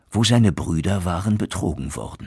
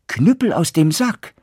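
higher, louder spell call; 11 semitones higher, 5 dB louder than usual. Acted. Son showing his father how he calls the cudgel, raised. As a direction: call the command as a demonstration.

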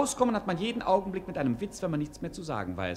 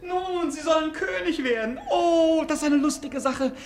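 laughing; 9 semitones higher, 5 dB louder than usual. Acted. Diener lacht über Königswürde.

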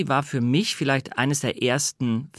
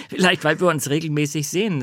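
laughing; 4 semitones higher, 3 dB louder than usual. Real, not acted. Laughs about colleague's age.

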